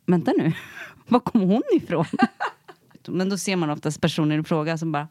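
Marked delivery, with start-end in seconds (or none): 0.1-2.0 imitating startled driver. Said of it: "Och sen efteråt bara".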